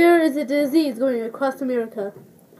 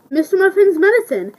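upbeat ad announcement; 4 semitones higher than usual. Shown as a demonstration.

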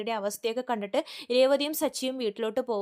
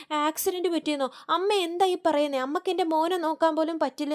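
higher, upset outburst; exploding at mother; 6 semitones higher than usual. Retold or imitated. Daughter blaming her mother over the phone, higher upset outburst. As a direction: lash out at her mother in distress. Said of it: "Shruti പൊട്ടിത്തെറിക്കുവാണ് അമ്മേനോട്".

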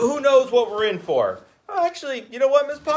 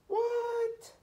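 shocked what; 9 dB quieter than usual. Real, not acted. Reacting to trucks' rejection.

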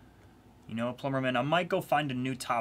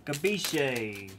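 Italian pronunciation try; 2 semitones higher than usual. Acted. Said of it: "How you want me to say it".

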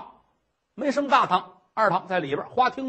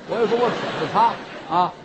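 coy giggle; 3 semitones lower, much faster than usual. Acted. Nun coyly giggles.

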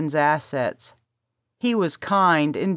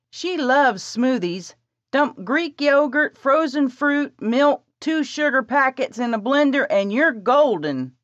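put-on higher, louder, urgent girl; eager young woman; 8 semitones higher, 3 dB louder than usual. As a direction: rush the plan, bossy and eager. Presley voiced by narrator.

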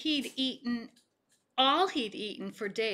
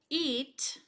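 mocking taunt; 3 semitones higher, 4 dB louder than usual. Pizza eater taunting Bullfrog, loud and gloating. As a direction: rub it in his face.

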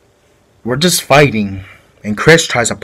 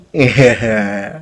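mocking laugh; 3 semitones lower than usual. Imitating Frank laughing at him, mild mocking chuckle. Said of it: "he starts making fun of me".

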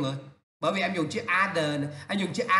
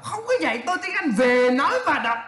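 high, amused disbelief with a laugh; mocking correction; 6 semitones higher, 4 dB louder than usual. Shown as a demonstration. Teacher rejecting a student's awkward phrase, mockingly. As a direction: hammer VỀ NÓI VÀ ĐỌC louder and higher.

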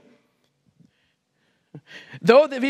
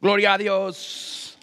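lower, slow mock praise; Hispanic preacher impression; 4 semitones lower, slower than usual. Preacher parodying Hispanic church bait, slow low praise. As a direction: lightly imitate a Spanish-speaking preacher, drawn out. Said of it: "Then we got a Hispanic bait".

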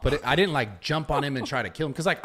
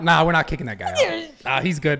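louder, amused guards letting him stay; laughing guard quote; 3 dB louder than usual. Retold or imitated. Friends hearing the funny security part, amused louder. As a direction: chuckle through the guards' words. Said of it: "they looked at me like".

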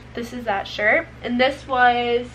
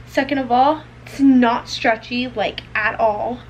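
emphatic complaint; 4 dB louder than usual. Real, not acted.

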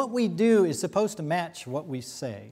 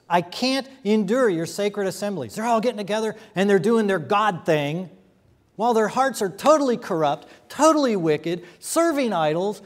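loud, rising preaching rebuke; preaching at full force; 3 semitones higher, 5 dB louder than usual. Acted. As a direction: thunder God's complaint at the people. Paraphrases God's rebuke forcefully.

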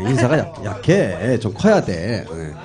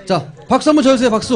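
fast, high, loud crowd call; rally the audience to clap; loud MC hype; 12 semitones higher, 5 dB louder, faster than usual. Acted. MC asks for applause.

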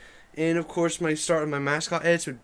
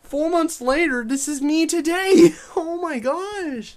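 high, squeaky cartoon duck; 11 semitones higher, 3 dB louder than usual. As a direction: talk like a silly cartoon duck. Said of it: "saying it in my duck voice".

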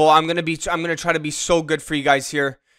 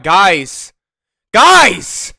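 frantic yelling; 8 dB louder than usual. Real, not acted. Panicking at goalie play.

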